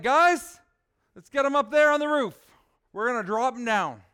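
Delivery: loud, high Southern call to the guys, easing off at the end; a Southern ringleader shouting up a plan; Southern buddy barking orders, then settling down; Bubba's southern accent. Acted. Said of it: "Picture my southern accent right now".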